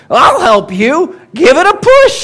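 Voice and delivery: high, loud frog voice, slow then squeaky; croaking frog. Acted. Frog offers help to the stuck duck, high and croaky. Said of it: "and croaks".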